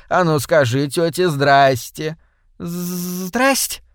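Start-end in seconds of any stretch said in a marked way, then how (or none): 2.6-3.8 put-on small child chirping a greeting, higher; chirping toddler. A narrator's reading. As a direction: chirp it like a shy little girl. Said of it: "прощебетала Майза".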